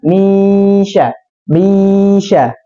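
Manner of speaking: misya said slowly and flat, no hum; wrong flat misya. Shown as a demonstration. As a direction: drag misya out with no nasal ring. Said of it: "Tapi jangan".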